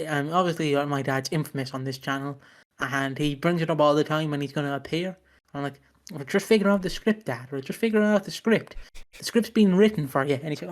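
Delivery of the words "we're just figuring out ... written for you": exasperated. Retold or imitated. Retold exasperated reply to dad.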